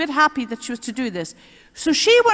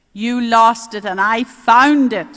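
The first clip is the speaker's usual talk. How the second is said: quick retort; 6 dB louder than usual. Retold or imitated. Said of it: "as quick as a flash".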